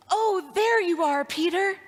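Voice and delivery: bright smiling. Retold or imitated. Lost boy recognizing grown-up Peter, slow and smiling. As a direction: greet him with a beaming smile. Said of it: "with a bright, shining smile, he says".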